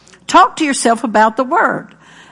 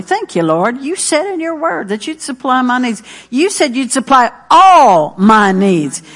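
prayerful confession. Shown as a demonstration. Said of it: "See what I'm doing?".

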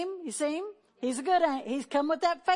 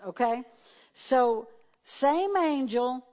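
normal talking voice

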